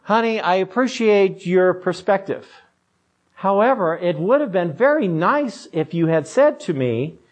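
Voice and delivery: measured, mock-tender pastor; patient, slightly put-on pastoral kindness; loving pastoral voice. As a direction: gently correct your wife like a pastor. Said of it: "in my loving pastoral voice".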